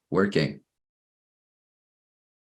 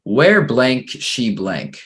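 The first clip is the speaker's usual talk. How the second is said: slow dictation; 3 semitones higher, much slower than usual. Shown as a demonstration. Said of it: "So number two".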